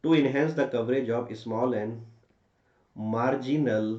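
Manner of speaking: very slow, word-by-word dictation; dictating. Shown as a demonstration. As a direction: spell out the answer phrase by phrase. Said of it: "फिर answer".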